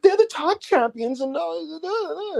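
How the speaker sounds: put-on high New Zealand accent. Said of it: "with her New Zealand accent".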